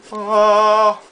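high, drawn-out mock voice; loud "oh", then slow high character voice; cartoon impression.

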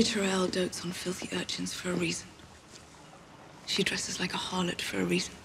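whispering. Acted. Gossip about a rival lady.

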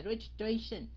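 "registration" in one continuous go; run together. Shown as a demonstration. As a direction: say "registration" straight through without a break. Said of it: "Đọc mà luôn". ("registration" đọc liền một mạch)

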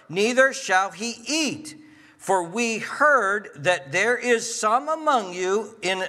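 drawn-out, declaimed Bible verse; emphatic scripture reading. Acted. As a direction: read it out slowly as a command to the congregation. Reads scripture aloud emphatically.

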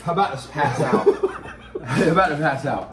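laughing and gasping. Real, not acted. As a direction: laugh through the words. Laughing through the burn.

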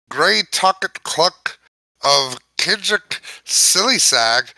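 halting read in a light Irish lilt; Irish accent. Pretend. The book forcing the reader into an Irish accent, halting. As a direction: stumble through it in a mild Irish accent. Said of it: "I'm aware Irish now".

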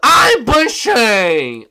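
put-on high, slow, loud old-librarian voice; Bushy impression. Taunting Bushy in front of the lobby. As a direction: drag each word out, squeaky and old. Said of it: "what Bushy sounds like".

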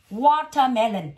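"Watermelon" slow, each vowel clearly stretched; drawn-out word. Shown as a demonstration. Teacher quizzing pupil on syllable count, "Watermelon" drawn out. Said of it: "Bây giờ nó bao nhiêu âm tiết?".

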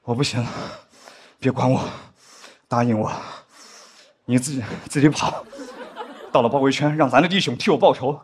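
a light parody of a dying war-drama hero; mock dying comrade. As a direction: play the fallen hero begging his friend to run. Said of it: "一定会有个说".

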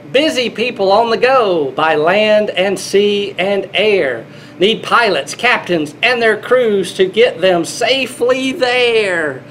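lilting picture-book read-aloud; storybook voice for little kids; reading to children. Acted.

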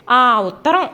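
"ఆ" hit hard at the front; pointed stress on "ఆ ఉత్తరం"; emphatic stress. A narrator's reading. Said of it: "అంది ఒత్తి పలుకుతూ".

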